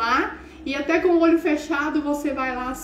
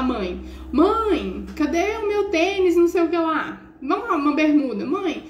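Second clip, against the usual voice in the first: put-on raised, pleading kid's voice calling "mãe"; a son shouting for his missing shorts, higher and whiny; whiny son calling mum; 5 semitones higher than usual. Son calling his mother from the bedroom, whiny and raised.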